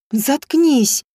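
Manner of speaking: a mild, hammed-up snap to shut her up; lightly voiced angry order; snapped. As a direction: bark it out curtly. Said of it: "рявкнула женщина".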